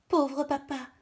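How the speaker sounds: very high, very loud cry. Acted. Kid screaming for the bear while father fights, high and loud. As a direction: scream for help in despair. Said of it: "crie encore Pitou".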